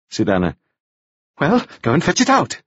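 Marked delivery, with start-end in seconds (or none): 1.4-2.6 higher, impatient order; snapped. A narrator's reading. Widow orders Anna to get the document, snapping. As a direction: snap out the command. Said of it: "Lydia snapped".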